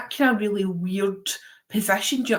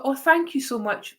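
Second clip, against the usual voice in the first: slightly higher, lightly American voice; imitated American accent; 5 semitones higher than usual. Grateful stranger with stuck suitcase, light American accent. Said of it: "with an American accent".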